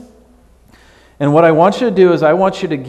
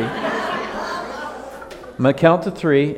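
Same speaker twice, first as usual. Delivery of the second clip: very slow, drawn-out count warning with a laugh; stretched out slowly; 2 semitones higher, 4 dB quieter, much slower than usual. Shown as a demonstration. Pastor teasing the congregation, very slow with a laugh. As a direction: drag every word out playfully.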